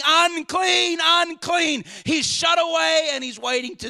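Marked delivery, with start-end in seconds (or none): 0.0-1.8 leper crying. Acted. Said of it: "and he's crying".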